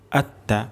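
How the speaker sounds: আত্তা kept short, no stretch; quick short vowel. Shown as a demonstration. Teacher repeats আত্তা for students, short. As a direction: say আত্তা briskly without lengthening. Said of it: "দ্রুত পড়ব".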